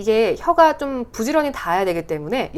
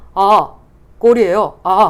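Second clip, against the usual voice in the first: put-on commentator voice, much louder and slower; 9 dB louder than usual. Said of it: "신문선 전 해설위원을 흉내내서".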